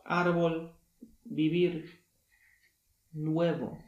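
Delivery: teacher's example words; Spanish demo. Shown as a demonstration. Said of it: "B wymawiane będzie jako głos".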